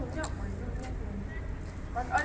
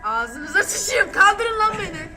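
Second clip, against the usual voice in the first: angry; 4 semitones higher, 7 dB louder, slower than usual. Real, not acted. Tied up, demanding release.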